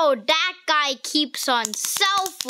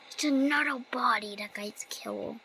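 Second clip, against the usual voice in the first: whisper; 5 dB quieter than usual. Real, not acted. Whispering while a ghost in game.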